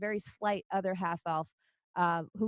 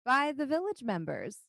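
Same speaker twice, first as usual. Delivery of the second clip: half-orc councillor; 4 semitones higher than usual. Acted. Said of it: "She says".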